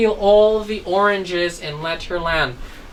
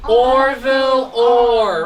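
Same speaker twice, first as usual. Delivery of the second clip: "Orville Orr" said slowly, each syllable drawn out; slow clear model; 3 semitones higher, 3 dB louder, much slower than usual. Shown as a demonstration. Teacher modelling the name "Orville Orr" slowly for pupils. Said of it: "Can we say his name again?".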